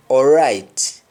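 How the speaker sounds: English-style "all right" with a rounded first vowel; English accent. Shown as a demonstration. Teacher contrasting English with Jamaican, English accent. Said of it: "In English, the accent is more like".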